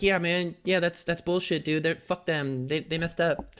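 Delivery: lightly put-on soothing pal; mock supportive buddy. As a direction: play the sympathetic friend, a bit dragged out. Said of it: "He doesn't talk like that".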